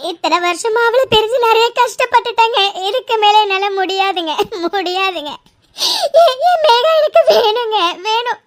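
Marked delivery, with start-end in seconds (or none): 2.9-8.4 broken, weeping voice; mother begging husband to bring daughter back; sobbing plea. Acted. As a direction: beg through tears.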